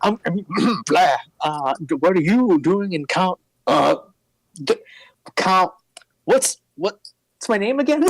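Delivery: high, flustered nerd voice; nerdy larper losing his act; stammering nerd. Acted. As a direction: fumble it like a scared geek.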